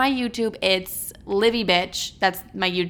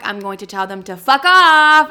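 louder, punchy tell-off; defiant; 5 semitones higher, 10 dB louder than usual. Pretend. Telling her returning exes off, defiantly loud. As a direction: spit it out with attitude.

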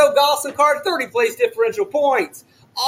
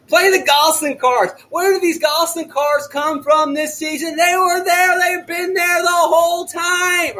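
enthusiastic yelling; 6 semitones higher than usual. Real, not acted. Podcaster pumped about Gosselin cars, real excited yelling. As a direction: yell it with pure fantasy-racing enthusiasm. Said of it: "Are you screaming and yelling?".

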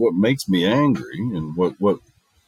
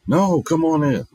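receptionist welcome; 9 semitones higher, 5 dB louder, slower than usual. Retold or imitated. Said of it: "I said".

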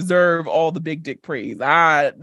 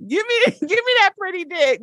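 hammed-up bedroom praise; 9 semitones higher than usual. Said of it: "I'll be like".

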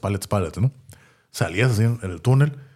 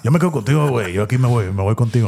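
mock-nervous cousin, pitched up; scared cousin; 2 semitones higher, 3 dB louder than usual. Scared cousin clinging to him at the back, mock nervous. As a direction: play a cowardly cousin clinging along. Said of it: "él por miedoso".

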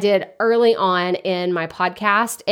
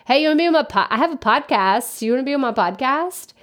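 higher, offhand careless ask; mock lazy pitch; 4 semitones higher, faster than usual. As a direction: parody a lazy cold message. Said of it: "That's literally how it's like".

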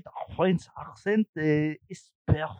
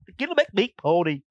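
mock Asian accent. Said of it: "why does everyone say that they talk like that".

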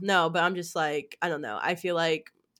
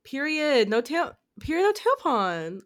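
imitating Denzel; 7 semitones higher, 4 dB louder than usual. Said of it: "My client Denzel says that".

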